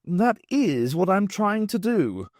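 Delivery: slow, pointedly sarcastic; weary sarcastic retort; heavy sarcasm. A narrator's reading. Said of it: "with heavy sarcasm".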